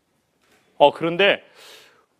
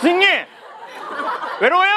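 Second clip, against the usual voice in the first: incredulous mock retort; 12 semitones higher, faster than usual. Patient mockingly asking the hand-holding nurse if she is lonely, incredulous. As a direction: fling it at her in mock outrage.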